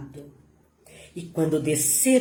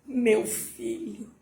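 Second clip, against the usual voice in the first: soft, slow grieving call; mother's anguished cry; 3 semitones higher, 7 dB quieter, slower than usual. A narrator's reading. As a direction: begin the mother's lament softly and slowly. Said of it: "ela gritou".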